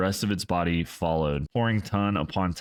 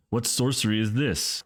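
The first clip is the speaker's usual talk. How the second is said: higher, alarmed shout; 6 semitones higher than usual. A narrator's reading. A high alarmed shout. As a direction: ghost king crying out at the sorcery. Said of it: "shouted Adelbern".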